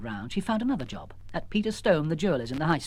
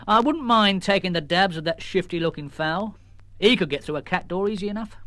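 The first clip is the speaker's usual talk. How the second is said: lightly voiced sergeant; police sergeant; 3 semitones higher than usual. Sergeant delivering a message, lightly voiced. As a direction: official and plain.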